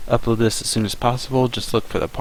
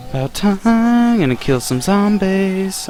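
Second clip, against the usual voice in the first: excited; 9 semitones higher, slower than usual. Real, not acted. Celebrating power, slow high voice.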